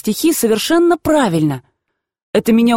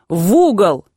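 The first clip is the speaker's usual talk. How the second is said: quiet but menacing; slower than usual. Acted. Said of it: "Она тихо, но грозно повторила".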